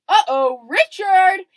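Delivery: imitated call-out. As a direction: call it out loudly like a retold uh-oh moment. Imitating Chris calling out in alarm.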